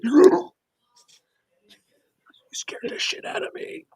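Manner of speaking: high, whispered shock; startled whisper. Retold or imitated. Knifed enemy to sneaking player, a high startled whisper. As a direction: gasp it out high and hushed.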